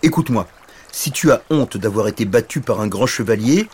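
lightly voiced dragon, starting loud and high; a hint of a blustery dragon; exclaiming dragon. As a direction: counsel a tearful little knight. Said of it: "dit le dragon".

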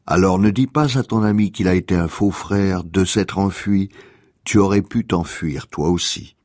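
measured reading of a short fable; poem reading. Acted. Host reading a fable to listeners, measured poem reading. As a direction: read it line by line, with pauses.

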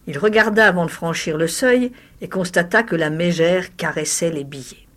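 ordinary delivery

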